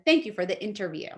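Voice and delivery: quick, offhand thank you; plain thank you. Shown as a demonstration. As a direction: toss it off quickly. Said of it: "rather than".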